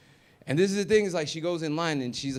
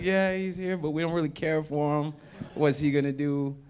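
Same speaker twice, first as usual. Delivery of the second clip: mock audience voice; 3 semitones higher than usual. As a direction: brush him off in a silly voice. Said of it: "He's like".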